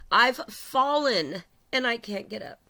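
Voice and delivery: slow, mock-helpless plea from the old TV ad; quoting the commercial. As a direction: play the fallen lady calling for help, slowly. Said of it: "that was a commercial about a lady that fell".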